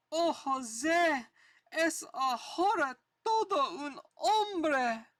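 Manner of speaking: a hint of a corny old comic hero; comic character voice. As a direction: read the bubbles as a mildly awed bystander. Reads comic character lines aloud.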